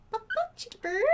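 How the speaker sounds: high squeaky line for the bird to copy; bird-teaching voice. Shown as a demonstration. Teaching her cockatiel a phrase in a squeaky high voice. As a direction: say it like a parrot would. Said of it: "Say it".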